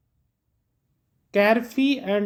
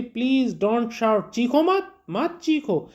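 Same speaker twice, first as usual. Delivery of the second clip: pitched up sharply on चीखो मत, a pretend scold; mock indignant retort; 3 semitones higher, much slower than usual. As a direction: play Natalia telling Lomov off, higher and sharp. Natalia snapping back in quarrel.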